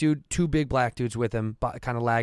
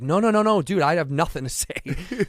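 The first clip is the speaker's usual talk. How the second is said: nervous denial; 4 semitones higher than usual. Retold or imitated. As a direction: placate the big guy. Nervous denial to Ryan Leaf.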